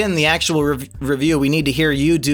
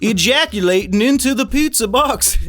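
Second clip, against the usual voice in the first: a hint of a Southern accent, pitched higher; mock Southern detective accent, pitched up; Benoit Blanc accent; 6 semitones higher than usual. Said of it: "I can't do the accent while trying to be funny".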